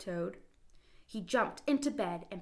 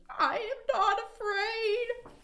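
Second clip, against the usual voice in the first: high, slow, louder shout; trembling shout; 5 dB louder, slower than usual. Acted. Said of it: "he shouted".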